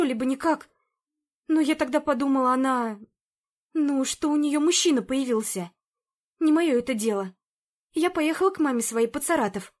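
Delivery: confessing housekeeper. Acted. Zina's long confession voiced.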